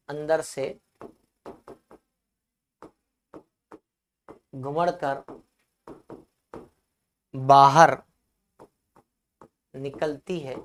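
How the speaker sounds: low, word by word with long pauses; slow dictation for students writing it down. Real, not acted. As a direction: dictate in small chunks, waiting after each. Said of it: "परिभाषा मैं लिखवा देता हूं".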